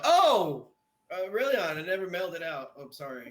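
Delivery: feigned surprise. Acted. Friend pretending the card was never mailed, feigned surprise.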